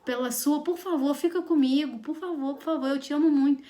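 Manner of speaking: lightly voiced pleading boy in love; garoto fofinho apaixonado. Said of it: "É o falar fofinho". (imitando de leve um garoto apaixonado fofinho)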